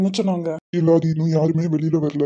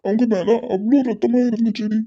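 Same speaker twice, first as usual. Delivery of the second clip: tearful; 4 semitones higher than usual. Acted. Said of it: "அழாதடா".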